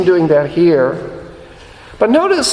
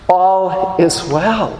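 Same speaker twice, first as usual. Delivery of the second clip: slow reassurance; much slower than usual. Shown as a demonstration. Preacher repeats reassuring phrase.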